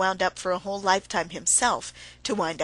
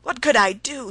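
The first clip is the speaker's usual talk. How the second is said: pitiful; 5 semitones higher, 5 dB louder than usual. A narrator's reading. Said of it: "he kept saying in a pitiful voice".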